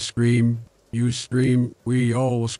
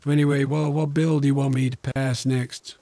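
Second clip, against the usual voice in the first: lightly mumbled president impression; a hint of a rambling old statesman; Joe Biden; 3 semitones higher than usual. President asks viewers which bill to pass, lightly impersonated. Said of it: "a little bit of mumbly".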